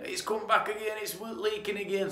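mimicked customer. Customer complaining, mimicked high.

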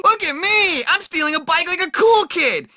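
high, proud showing off; excited boast. Acted. Nerd shows off stealing a bike, proud and high. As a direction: crow about it like a kid.

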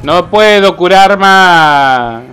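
panicking gamer. Real, not acted. Healer overwhelmed in fight.

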